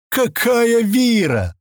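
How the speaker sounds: high, slow exasperated shout; annoyed outburst. Acted. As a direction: throw up your hands and shout. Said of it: "досадливо всплеснул руками".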